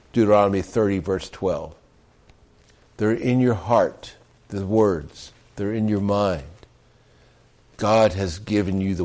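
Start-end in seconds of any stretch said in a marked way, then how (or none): 3.0-6.4 "They're in your heart" slow and gentle; "They're in your heart" said softly and slowly; quiet reprise. Acted.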